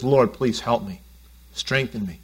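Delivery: low, hushed plea; quiet prayer. Retold or imitated. Pastor voicing a prayer under attack, hushed and low. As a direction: murmur a humble request for strength. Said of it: "He says".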